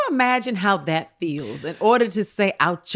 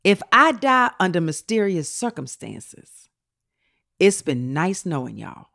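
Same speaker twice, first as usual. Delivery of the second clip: slow tweet reading; slower than usual. Retold or imitated. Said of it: "So he said".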